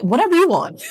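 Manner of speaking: nervous laughing people-pleaser; laughing along. Retold or imitated. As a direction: giggle it out nervously. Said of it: "I'm like".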